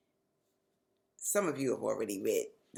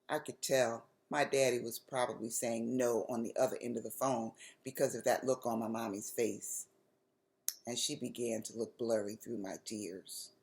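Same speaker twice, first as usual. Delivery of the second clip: lively read-aloud storytelling voice; story narration. A narrator's reading. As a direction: tell it like reading to kids. Author reads her chapter book aloud.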